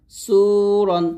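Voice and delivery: সুরন with a thick, heavy সু. Shown as a demonstration. Teacher demonstrating heavy সু in সুরন. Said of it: "সদ ওয়াও পেশ সুরন এরকম".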